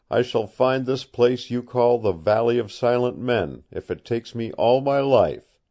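a mild, half-voiced fierce cry; savage cry. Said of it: "cried Kent, almost savagely".

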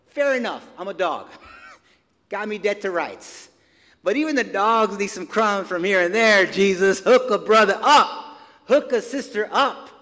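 a light, coy, witty comeback with a chuckle; teasing Jesus, playfully pleading for crumbs; coyish, witty. Retold or imitated. Woman teasing Jesus for crumbs, lightly coy and witty. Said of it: "almost this coyish, witty rebuttal".

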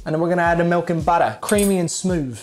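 playful put-on British accent; casual fake British chatter. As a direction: cook along in a mock-British voice. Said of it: "use my British accent".

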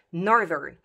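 "Northern" with the middle "th" buzzed like a dental d; voiced th. Shown as a demonstration. Teacher modelling the changed consonant, voiced th. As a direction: say "Northern" with tongue between teeth, voice on. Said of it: "cu d, d".

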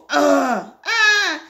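loud, high "ugh" and "ah"; startled cries. Acted. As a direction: cry out as if jumped by a dog. Voicing reactions amid the barking.

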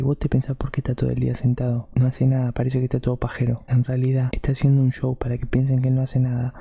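a hammed-up conspiracy theorist explaining the plot; conspiratorial voice. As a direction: spin the conspiracy like a paranoid insider. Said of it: "Para que no nos espíen".

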